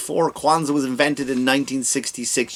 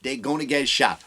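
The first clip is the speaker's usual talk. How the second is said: mock Kamala Harris; 4 dB quieter than usual. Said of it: "I'm not making that up".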